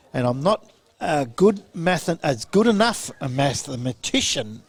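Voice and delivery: tripping over words. Real, not acted. Co-commentator fumbling a sum on air, tongue-tied. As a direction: stumble and restart on a hard word. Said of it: "trying to spit that one out".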